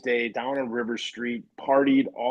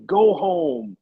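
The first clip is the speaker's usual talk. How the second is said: higher, louder retold order to leave; exasperated dismissal; 5 semitones higher, 5 dB louder than usual. Player to the coach who drove down, exasperated dismissal. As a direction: send him packing, loud and high.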